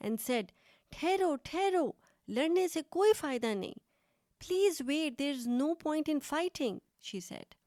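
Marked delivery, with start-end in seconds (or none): 0.9-3.8 urgent cry to stop the fight; second goat screaming to stop the fight. Acted. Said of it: "चिल्लाकर बोली". 4.4-6.8 higher, urgent plea, slow; teacher-paced cry to stop; second goat pleading not to fight; mild mock scream. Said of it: "the second goat screamed".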